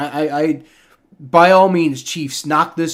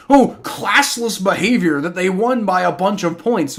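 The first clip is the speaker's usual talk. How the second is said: mocking whine; 3 semitones higher than usual. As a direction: imitate the offended whiners. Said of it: "they like".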